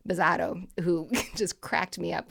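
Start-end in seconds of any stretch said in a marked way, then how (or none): 0.1-0.7 put-on Jerry Remy Boston accent. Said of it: "whenever Remy announced him".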